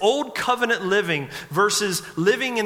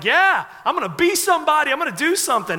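higher and louder, pumped with resolve; fired up; 9 semitones higher, 3 dB louder, faster than usual. Retold or imitated. Sixth-grader vowing to be somebody, fired up and loud. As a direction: announce your big plans, all pumped. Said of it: "I got all fired up".

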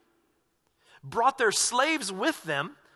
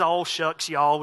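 1 southern drawl imitation; 3 semitones lower, 3 dB louder, much slower than usual. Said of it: "I lost my southern accent for a reason".

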